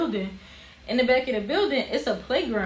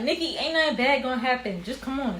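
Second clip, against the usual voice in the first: higher-pitched imitation of impatient reassurance; dismissive coaxing; 5 semitones higher than usual. Cousins talking Nikki into the car, coaxing. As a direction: brush the worry off and coax.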